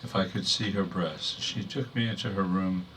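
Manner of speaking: measured, restrained poem delivery; poetry reading. Acted. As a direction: read verse to an audience, pausing between phrases.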